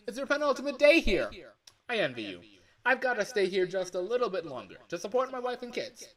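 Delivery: loud, high, chirpy phone guy greeting; hammed-up cheery night-shift boss on the line; phone guy character. Game dev voicing the phone guy for his fan game, loud and high.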